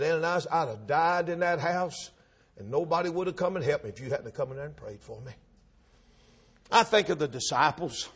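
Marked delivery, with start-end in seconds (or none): 0.0-5.3 low, hushed thanks; humble gratitude. Acted. Old Paul thanking Ananias for coming to pray for him, humbly. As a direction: drop right down soft and low, deeply indebted.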